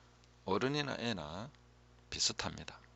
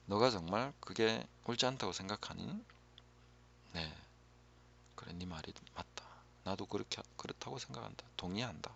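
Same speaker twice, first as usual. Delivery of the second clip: softer, half-whispered affirming voice; a lightly voiced kind encourager; gentle encouragement; 4 dB quieter than usual. Shown as a demonstration. Someone encourages a struggling adult, softly agreeing. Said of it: "격려를 받아야 돼요".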